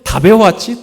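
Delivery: high, loud mock teacher's question; mimicking the teacher. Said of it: "또 선생님은".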